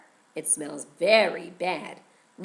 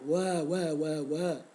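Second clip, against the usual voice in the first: put-on grown-up baby cry; 4 semitones lower, slower than usual. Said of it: "Instead of crying".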